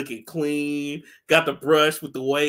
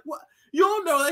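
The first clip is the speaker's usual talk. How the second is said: high mock question; 12 semitones higher than usual. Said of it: "He's like".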